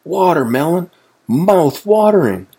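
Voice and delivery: high, excited exclamations; delighted whoop. A narrator's reading. Wasp gets watermelon, whooping with delight. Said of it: "whooped the wasp".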